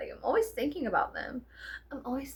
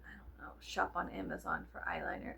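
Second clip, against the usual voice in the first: a breathy secret whisper; 5 semitones lower, 11 dB quieter than usual. Shown as a demonstration. Vlogger whispering a fake sponsor line to viewers. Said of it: "Just kidding".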